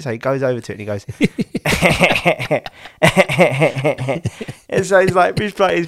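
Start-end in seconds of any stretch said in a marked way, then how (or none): 1.1-4.6 put-on a little gleeful baby giggle; imitated baby laugh. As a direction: mimic the toddler's proud giggle. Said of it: "he's invented this new little laugh".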